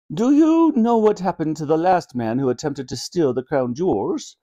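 lightly regal questioning voice; a composed monarch posing a question; inquiring Queen. Acted. Queen quizzing thieves about the last one, composed.

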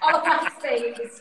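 playful Scouse Olaplex, please; Scouse accent. Pretend. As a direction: say it like a Liverpudlian. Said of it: "I love that".

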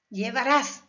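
Llevarás with the weight on RÁS; stress on last syllable. Shown as a demonstration. Teacher showing the última sílaba, Llevarás stressed on RÁS. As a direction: lean on the final RÁS of Llevarás. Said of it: "última sílaba".

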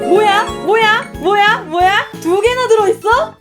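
high, loud astonished what; surprised. Real, not acted. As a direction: shout it in disbelief. Box opened, surprised.

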